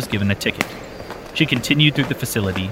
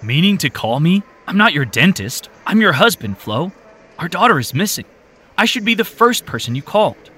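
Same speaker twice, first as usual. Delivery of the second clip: upset husband; 8 semitones higher, 4 dB louder than usual. Acted. Husband upset wife didn't call.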